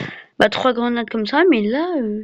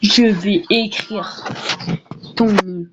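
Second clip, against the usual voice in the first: whispering; slower than usual. Pretend. Threatens to write name.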